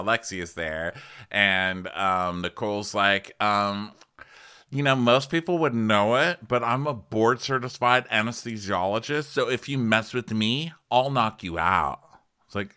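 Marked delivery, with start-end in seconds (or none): 4.7-12.0 mock tough intro. Quoting Nicole's opening line.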